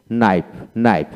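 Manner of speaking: নাইফ starting straight on the N; silent K. Shown as a demonstration. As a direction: say নাইফ with the K left out. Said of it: "কে উচ্চারিত হবে না".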